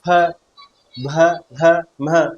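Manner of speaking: फ, भ, भ, म sounded out one by one with the lips meeting; teacher repeating the lip letters slowly; lip consonant demo. Shown as a demonstration. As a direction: press the lips for फ, भ and म. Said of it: "होठों का मिलान हो रहा है".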